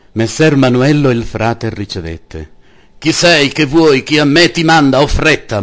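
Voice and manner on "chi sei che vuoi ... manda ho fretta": high and loud, rapid-fire questions; a lord snapping at an unwelcome friar; impatient outburst. A narrator's reading. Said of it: "mugolò".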